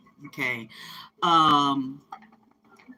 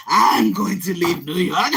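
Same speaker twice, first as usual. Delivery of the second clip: slow, laughing through it; giggling as you quote him; 6 dB louder, slower than usual. Retold or imitated. Quoting the man who also wants to leave, laughing. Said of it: "He said".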